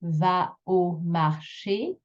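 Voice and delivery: slow syllables, CHÉ of marché stretched; va, au, mar, then a long rising CHÉ; last syllable longer. Shown as a demonstration. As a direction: linger on the end of marché. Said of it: "that one's a bit longer".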